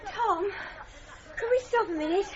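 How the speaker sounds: breathless after cycling; panting between words; out of breath. Acted. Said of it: "I'm out of breath".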